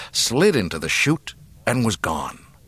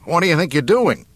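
loud, high outraged question; incredulous, raised-voice protest; disbelieving; 8 semitones higher, 5 dB louder than usual. A narrator's reading. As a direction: demand it in disbelief. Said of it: "gazed at her in disbelief".

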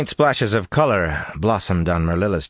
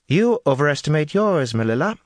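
cold retort; 9 semitones higher than usual. A narrator's reading. Jolene retorts.

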